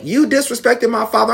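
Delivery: high-pitched retold accusation; mock accusation. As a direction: imitate an indignant mother accusing. Acted quarrel, mother accusing.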